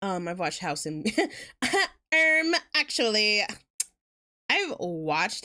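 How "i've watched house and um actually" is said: normal talking voice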